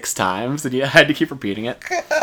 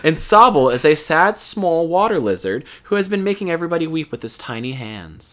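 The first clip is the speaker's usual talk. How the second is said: scripted game-news delivery; news read; 6 semitones higher than usual. Real, not acted. Host reading Pokemon news to listeners, scripted news read. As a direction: read it out like a show segment.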